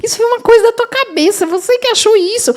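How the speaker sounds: emphatic denial. Retold or imitated. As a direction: wave the worry away with a bright laugh in the voice.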